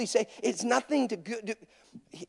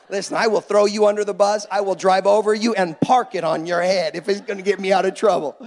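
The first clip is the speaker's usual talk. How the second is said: loud, emphatic comic threat; hammed-up self-preserving bluster; mock threat; 5 dB louder than usual. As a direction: punch out a playful warning at full voice. Jokingly threatens to shift the blame.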